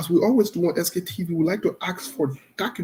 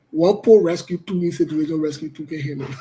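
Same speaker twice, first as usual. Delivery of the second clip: talking as laughter takes over; the words give way to real chuckling; amused, losing composure mid-sentence; starting to laugh. Real, not acted. Breaking into laughter at own news.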